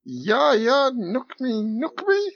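high-pitched mock German; crap German accent. Player answers the call for a crap German accent. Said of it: "a crap German accent".

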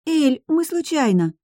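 put-on very high, drawn-out little-girl squeak; pleading small-child voice; squeaky. A narrator's reading. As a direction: squeak out an excuse. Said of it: "пискнула Луиза".

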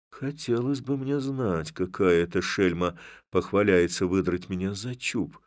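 ordinary delivery

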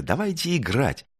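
high, eager proposal; exclaiming. A narrator's reading. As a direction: urge friends on excitedly. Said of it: "воскликнула Звёздочка".

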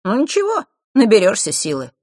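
high, lilting encouragement; friendly teasing. A narrator's reading. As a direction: cheer them on with a smirk. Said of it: "вполне дружелюбно усмехнулся мальчишка".

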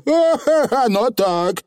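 high little cackle; cheerful, unrepentant admission; Feegle owning up. A narrator's reading. Feegle admitting he read private letters, high and cheeky. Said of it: "признал Явр заядло".

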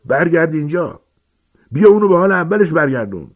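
high, loud yelling command; frantic furious uncle; desperate shout. Acted. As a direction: bellow after him to come back. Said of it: "عمو ورنون فریاد زد".

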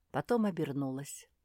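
ordinary delivery, nothing marked

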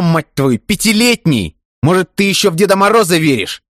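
a furious friend's yelling rant; enraged screaming. A narrator's reading. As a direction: scream in disbelief at his friend. Ivan's tirade escalates.

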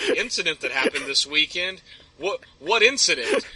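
puzzled echo, rising into a question; retold bewilderment, groping for what is meant; perplexed. Guard answering his commanding officer about an unknown incident, perplexed. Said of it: "I'm a little perplexed".

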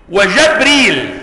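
وجبريل drawn out slowly, the jim with a clear fatha; open-vowel reading. Shown as a demonstration. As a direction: articulate وجبريل slowly, opening the first syllable with fatha. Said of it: "بفتح الايه؟ الجيم".

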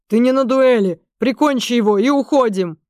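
loud, urgent commander's order; battle command. A narrator's reading. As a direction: finish it fast.

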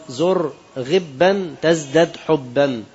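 very slow, each word of the proverb spaced out. Shown as a demonstration. Preacher quoting the proverb to the listeners, very slow.

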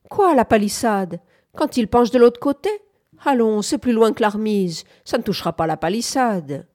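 put-on old man crying out. A narrator's reading. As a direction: protest loudly in disbelief, easing off at the end. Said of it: "cria le vieux".

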